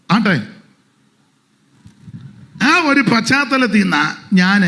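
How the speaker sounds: loud, high fervent sermon delivery; preaching at full force. Acted. Pastor rousing his church, loud fervent preaching. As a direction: proclaim it to the whole congregation.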